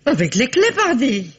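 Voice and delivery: amused, a laugh in the voice. Acted. The maid telling the inspector she used the keys, laughing at the obvious. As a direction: answer with a chuckle at the obvious.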